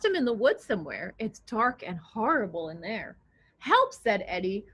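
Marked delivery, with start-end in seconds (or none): 3.6-3.9 high, loud little cry for help; a tiny boy calling out in fright; mock frightened child calling for help; scared cry. Eddie scared in woods.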